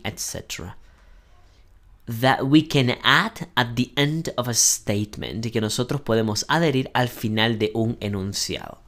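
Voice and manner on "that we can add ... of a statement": slow reading. Shown as a demonstration. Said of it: "Dice así".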